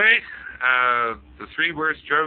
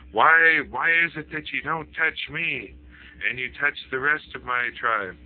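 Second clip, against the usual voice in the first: calling out to ogre; 4 semitones higher than usual. Acted. Rabbi calls out to ogre.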